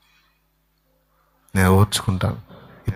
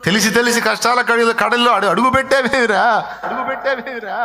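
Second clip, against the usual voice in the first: mocking taunt; 12 semitones higher than usual. Scolding brother mocks his choices.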